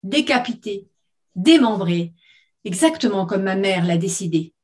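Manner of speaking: measured sentence with separated words; syllables detached. Acted. Woman threatening the robot to her ex-husband, detaching syllables. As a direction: deliver each word like a separate blow. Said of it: "en détachant chaque syllabe".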